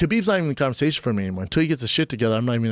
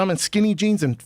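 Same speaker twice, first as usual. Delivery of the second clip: exasperated. Retold or imitated. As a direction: throw up your hands at the absurdity. Exasperated protest to Nate.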